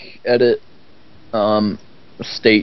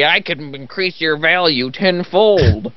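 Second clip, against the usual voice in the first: slow salesman pitch; 5 semitones higher, slower than usual. Pretend.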